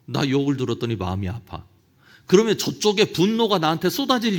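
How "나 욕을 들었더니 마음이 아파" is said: softer, plain admission of hurt; gentle hurt. Shown as a demonstration. Preacher contrasting with a retort, soft and hurt. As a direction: let the hurt show quietly. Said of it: "금방 느낌이 오지 않습니까".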